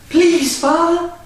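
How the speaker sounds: high, slow begging; begged. Acted. Girl begging father one last time, slow and pleading. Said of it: "she begged".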